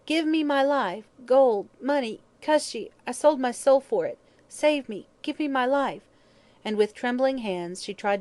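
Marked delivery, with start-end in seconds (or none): 0.1-6.0 high, frantic, loud begging; loud shriek. A narrator's reading. Dying hag offering gold for life, shrieking. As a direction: beg for life at a shrieking pitch. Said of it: "she shrieked loudly".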